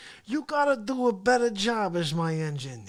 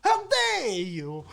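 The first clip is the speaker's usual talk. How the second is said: mock indignant. Shown as a demonstration. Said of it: "You just give him the old".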